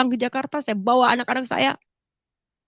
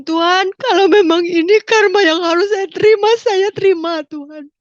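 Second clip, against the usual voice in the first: raised, loud pleading voice on the edge of tears; tearful prayer; 7 semitones higher, 7 dB louder than usual. Retold or imitated. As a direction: cry out to God, surrendering. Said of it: "Saudara, saya menangis".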